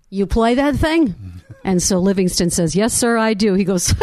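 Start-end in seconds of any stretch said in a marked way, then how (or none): 0.2-1.2 put-on New York accent, much higher. Telling a story, playing the guy in the cab talking to Livingston, New York accent. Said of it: "the guy says to him in a New York accent".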